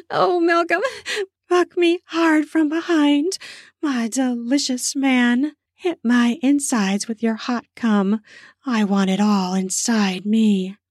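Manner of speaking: high, slow, pleading woman's voice; female lover begging. Acted. Woman to Malcolm in bed, high and pleading. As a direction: beg him high and slow.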